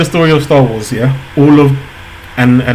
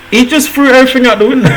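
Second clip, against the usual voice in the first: fast, high, bursting with laughter; can't hold back the laugh; laughing while talking; 12 semitones higher, faster than usual. Real, not acted. Hyped reaction to the rap verse.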